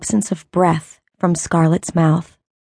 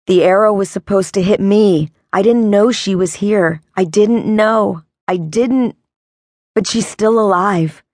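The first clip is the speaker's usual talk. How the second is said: desperate pleading. Acted. Desperate explaining to angry brother.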